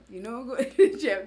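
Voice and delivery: amused quote, laughing midway through; laughing retelling. Real, not acted. Wife replaying her morning answer to her husband, laughing. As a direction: laugh breaking into the words.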